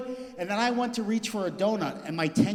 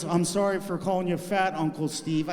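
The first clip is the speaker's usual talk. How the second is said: broken spirit; 3 dB louder than usual. Retold or imitated. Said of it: "his spirit was broken".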